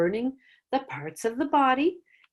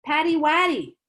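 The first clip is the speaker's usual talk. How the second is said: much higher mock-sure correction; playful teasing; 6 semitones higher, slower than usual. Teacher joking with students by offering a silly wrong name. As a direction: tease them with a silly name. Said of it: "I like to use humor and say".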